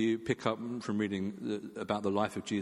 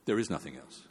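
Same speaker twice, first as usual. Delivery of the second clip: grave and low; 7 semitones lower than usual. Retold or imitated. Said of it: "before Dallas Willard said".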